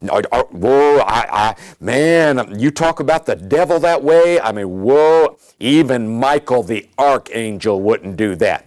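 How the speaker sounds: lightly voiced fretful believer, gasping whoa; mock-scandalized church member; a hint of a shocked religious person; imitating a timid churchgoer. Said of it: "somebody may be thinking".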